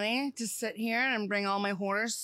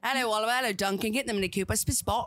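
British impression. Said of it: "she fucking nailed her".

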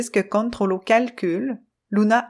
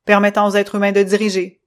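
loud, clipped machine voice, stern; choppy robot voice; 5 dB louder than usual. Acted. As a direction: stiff robot speaking in jerks. Controllo's presentation.

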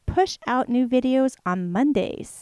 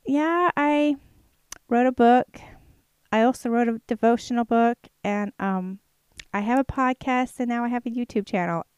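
proud answer; 4 semitones higher than usual. Retold or imitated. Answering doubters about her book, now proud and confident. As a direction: say it boldly, no more hiding. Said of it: "And then now I'm like".

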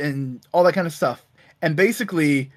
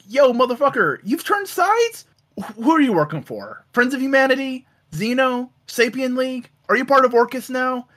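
high-pitched, disbelieving retold questioning; incredulous challenge; 6 semitones higher than usual. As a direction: act out an accusing string of questions. Retelling Wolverine's suspicious challenge.

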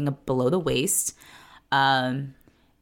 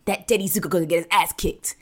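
lightly put-on greaser swagger, laughing at the end; a hint of a Grease tough guy boasting; mock tough guy voice; 2 semitones higher than usual. Podcaster imitates Johnny bragging about a drag race, mock tough guy voice. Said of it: "it's like tough guy voice".

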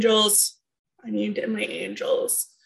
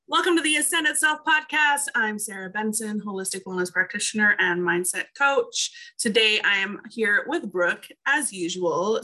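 podcast host intro. Acted. Host opening the podcast for listeners, bright announcer read. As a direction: welcome listeners like a radio host.

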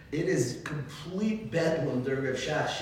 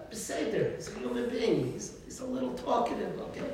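higher, softer, indulgent voice; tolerant excusing; 5 semitones higher, 3 dB quieter than usual. Retold or imitated. Patient person excusing a talker at davening, tolerant. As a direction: gently make excuses for him. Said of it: "and you're tolerant".

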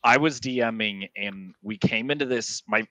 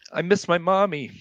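put-on little ghost girl; 7 semitones higher than usual. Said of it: "she looks at the player and goes".

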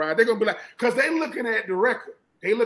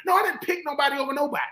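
heated denial; 4 semitones higher, faster than usual. Retold or imitated.

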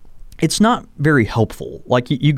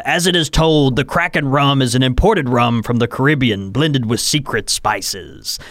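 reading aloud; slower than usual. Shown as a demonstration. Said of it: "I'll have to read it in mine".

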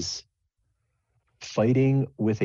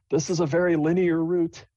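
lightly higher deadpan driver; dry driver voice; 10 semitones higher than usual. Acted. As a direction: say it flatly, a touch higher. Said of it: "driver says".

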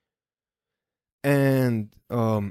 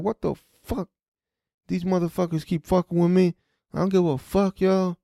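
mock-rant in exasperation; cursing rant; 6 semitones higher than usual. Driver cursing about cops who keep bothering him, exasperated. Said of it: "I just started cursing".

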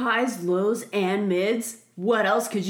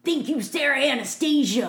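wrestler voice; 4 semitones higher than usual. Pretend. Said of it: "It's like a wrestler".

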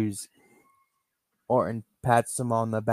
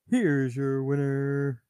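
ring announcer; 2 semitones higher, much slower than usual. Acted. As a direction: announce the winner to the arena. Ring announcer declares winner.

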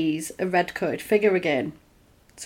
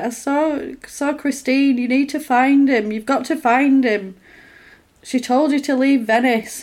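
higher-pitched retold plea; imitated urgent warning; 5 semitones higher than usual. Blind sister warning wife to find husband, imitated urgency. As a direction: press the warning home, acting it out.

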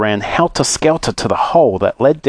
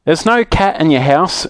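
higher, emphatic call; mild shout; 6 semitones higher than usual. Acted. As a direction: call it out without much volume. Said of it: "shouted Moonface".

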